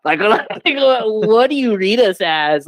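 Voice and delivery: high, slow, laughing incredulity; laughing disbelief. Retold or imitated. Retelling the robbery hint to his friend, laughing in disbelief.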